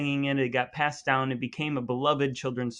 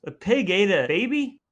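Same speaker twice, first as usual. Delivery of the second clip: higher, louder stunned question; shocked; 6 semitones higher, 5 dB louder than usual. Real, not acted. Cohost stunned by the pig story, in disbelief. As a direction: blurt it out in disbelief.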